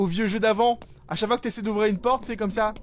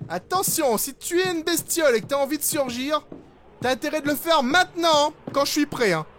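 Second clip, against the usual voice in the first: loud, raised warning to hidden monsters; 5 semitones higher, 4 dB louder than usual. Real, not acted. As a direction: call out a loud dare. Warning lurking creatures in horror game.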